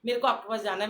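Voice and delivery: hint of a sobbing devotee begging to stay; retold crying plea. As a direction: plead through mild mock tears. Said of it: "मैं रो रही हूँ".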